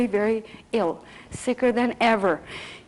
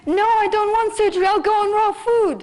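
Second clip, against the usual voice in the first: higher, louder, fast and defiant; stubborn refusal; 9 semitones higher, 4 dB louder, faster than usual. Retold or imitated. Husband refusing the surgeon, loud and defiant. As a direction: dig in your heels against the doctor.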